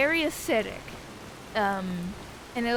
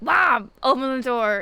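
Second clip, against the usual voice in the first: louder call through a closed door; raised voice, get her attention; 7 dB louder than usual. Retold or imitated. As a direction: call to mom on the other side. Calling through door to mom.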